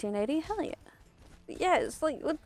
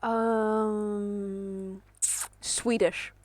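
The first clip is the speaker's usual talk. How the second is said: put-on Swedish accent; 3 dB quieter, much slower than usual. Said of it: "I might have done it wrong".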